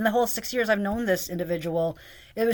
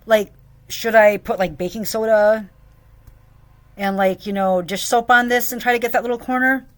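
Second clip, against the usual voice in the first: sarcastic fake politeness; 4 dB louder than usual. Sarcastic question to boss.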